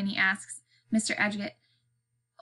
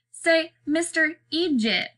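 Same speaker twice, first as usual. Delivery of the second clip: high, slow, needling call; loud taunt; 7 semitones higher, slower than usual. A narrator's reading. Boy heckles Mister Eegit, loud taunt. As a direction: call it out high and drawn out to mock. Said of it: "Bean says loudly".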